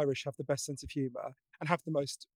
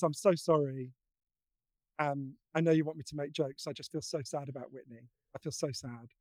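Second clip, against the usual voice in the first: imitating tearful Joan; 4 semitones lower, 4 dB quieter than usual. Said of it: "she's crying".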